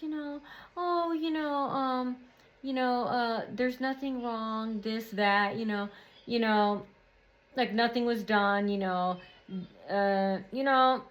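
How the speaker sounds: very soft, hushed imitation of her; imitating her soft talk. Showing how she talked in her office, very softly. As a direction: talk softly, trailing along lazily. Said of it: "she was talking like this".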